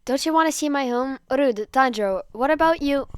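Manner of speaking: high, loud pouting complaint; petulant whine. Acted. Zenitsu whines at his boyfriend for ignoring him.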